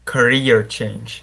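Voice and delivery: Career change slowly, syllables pulled apart; too slow. Real, not acted. Student practicing before the teacher's correction, slow. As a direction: drag out Career with a pause between syllables. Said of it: "say career a little bit faster".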